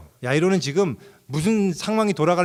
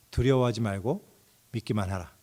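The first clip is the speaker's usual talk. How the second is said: calm reassurance; 4 semitones lower than usual. Acted. Jesus speaks, quoted solemnly. (잔잔하고 장엄한 예수님 말씀)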